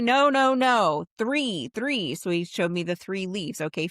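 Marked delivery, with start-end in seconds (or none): 0.0-2.1 retold annoyed correction, pitched up; louder, insistent mock scolding; mad. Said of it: "And he got mad at me".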